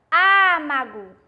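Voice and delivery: Âmago said slowly, with a closed â; careful Âmago; closed vowel demo. Shown as a demonstration. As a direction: draw out Âmago. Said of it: "o acento no A".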